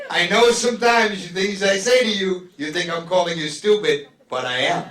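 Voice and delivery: mock rereading, cracking up; reading it out through laughter. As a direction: read the note again, laughing. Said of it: "She read it".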